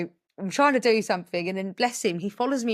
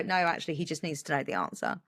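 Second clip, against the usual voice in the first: calm reasoning; 3 semitones lower, 6 dB quieter than usual. Retold or imitated. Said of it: "take a step back and go".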